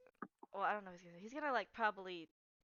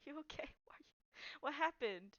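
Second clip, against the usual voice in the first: soft, halting, higher-pitched questions; gentle concern; 4 semitones higher, 9 dB quieter, faster than usual. Acted. Hayden wipes away a companion's tears, gently concerned. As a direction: ask tenderly and hesitantly. Character comforts crying Kira.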